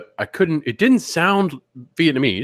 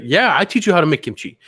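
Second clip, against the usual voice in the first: higher, eager shop-lady voice; imitating the donut lady; 6 semitones higher, 3 dB louder than usual. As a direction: offer it keenly in her voice. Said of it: "she's like".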